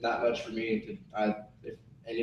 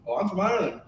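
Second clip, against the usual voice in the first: higher-pitched bad Irish accent; terrible Irish accent; 6 semitones higher, faster than usual. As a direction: fake being Irish, badly. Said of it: "talking in this terrible Irish accent".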